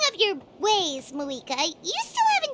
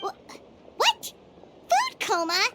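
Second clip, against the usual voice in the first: surprised; 7 semitones higher than usual. Acted. Paimon startled by food coma.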